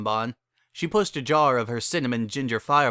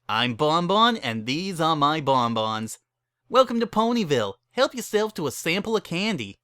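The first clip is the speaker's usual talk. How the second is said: higher, sing-song sales welcome; chirpy higher candy seller voice; forced shopkeeper cheer; 5 semitones higher than usual. A narrator's reading. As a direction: smile hard at odd customers. Bon Bon's forced welcome.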